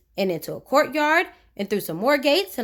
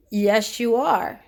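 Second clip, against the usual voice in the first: snapping; slower than usual. Acted. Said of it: "snapped Mister Uppity".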